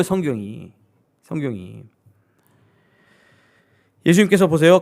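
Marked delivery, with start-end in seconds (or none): none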